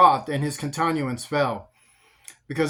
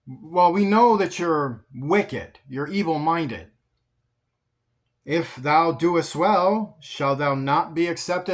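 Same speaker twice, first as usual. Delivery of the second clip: slow, weighty warning; God warning Cain, slow and deliberate; slow solemn God; slower than usual. Acted. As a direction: lay each word down slowly like a stern father. God's measured warning to Cain.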